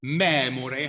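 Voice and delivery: "memore" with an open first E. Shown as a demonstration. Teacher giving an example, open E in "memore". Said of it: "has an open E".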